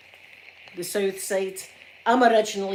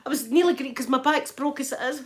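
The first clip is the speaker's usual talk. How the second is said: laughing; 5 semitones higher, 3 dB louder than usual. Real, not acted. Laughing at her own mess.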